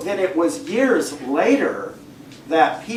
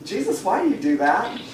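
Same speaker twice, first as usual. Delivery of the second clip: puzzled disciples; 3 semitones higher, faster than usual. Acted. Disciples asking Jesus why he speaks in parables, mildly puzzled. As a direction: lightly act out quick, baffled questions. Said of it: "And then the disciples say".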